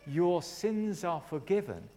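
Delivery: slow, measured declaration; loving pronouncement. Retold or imitated. Preacher retelling Jesus forgiving the man, loving declaration. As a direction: declare it slowly, with love. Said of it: "poured his love into his life and said".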